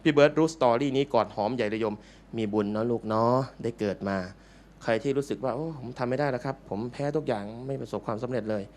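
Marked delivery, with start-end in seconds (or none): 5.5-8.6 acted defeat. Voices someone who feels defeated.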